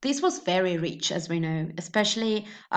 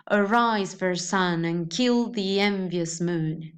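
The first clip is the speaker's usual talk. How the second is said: measured stress on "aRISE, SUN, KILL, EN-, MOON"; "a-RISE, fair SUN, and KILL the ENvious MOON", read to the meter; iambic rhythm; slower than usual. Shown as a demonstration. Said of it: "we have the same pattern".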